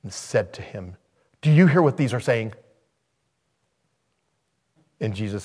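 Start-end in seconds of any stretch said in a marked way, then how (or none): 1.4-2.5 mildly indignant question, quick and louder; acted touch of anger, brisk; mad challenge. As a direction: demand an answer like offended officials. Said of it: "they got mad".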